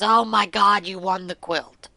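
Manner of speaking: husband shouting the news; excited exclamation. Retold or imitated. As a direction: blurt it out in delight. Husband reacts to the phone call.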